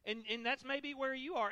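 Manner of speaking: ordinary talk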